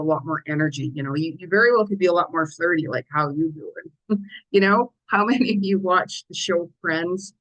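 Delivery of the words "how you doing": Joey pickup line. Pretend. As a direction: drawl it slowly like a flirty pickup. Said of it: "You know, Joey".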